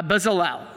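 Bezalel as BEZ-uh-lel, ending in "lel"; retry Bezalel with a short, light middle syllable; corrected pronunciation. Real, not acted. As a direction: Bezalel pitched low, with a clear final "lel". Retries the name.

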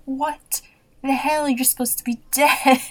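she's seen a ghost in her doorway; shocked disbelief. Retold or imitated. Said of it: "Laura just sees her in the door".

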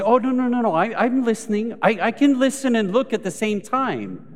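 high, loud, hurried protest; defensive partner. Retold or imitated. Partner caught on the phone protests loudly and high.

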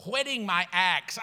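whetting my axe said slowly, whetting leaned on; slow, stressed whetting. Shown as a demonstration. Pastor mocking church people, slow stress on whetting. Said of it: "sharpening me the wrong way".

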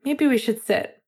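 pointed. A narrator's reading. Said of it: "Finn added pointedly".

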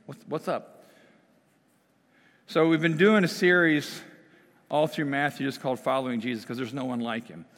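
ordinary talk, nothing marked

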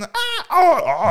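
high, loud frightened shrieks; screaming. Retold or imitated. Two startled lovers screaming together, loud shrieks. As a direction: scream again and again. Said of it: "kærester, der bare sådan".

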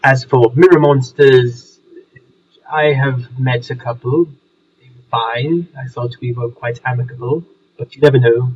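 posh English gentleman voice; home counties accent. Acted. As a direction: speak as a refined old Englishman. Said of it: "this is not a Surrey accent".

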